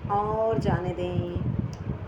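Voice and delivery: measured breathing instructions with long pauses; guided breathing. Acted. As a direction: guide the breath, drawing out the release. Leads slow breathing exercise.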